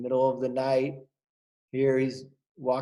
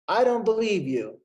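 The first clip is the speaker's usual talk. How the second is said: higher, teasing disbelief; doubting swallow; 7 semitones higher, 4 dB louder than usual. Acted. Swallow teasing blackbird friend, high disbelief. Apollo repeats refrain.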